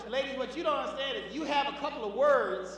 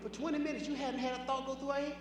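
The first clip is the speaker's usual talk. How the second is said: softer mock disbelief; disbelieving women; 7 dB quieter than usual. Women amazed at men's empty heads, soft mock disbelief. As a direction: drop the volume, imitate incredulity. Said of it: "And women can't believe".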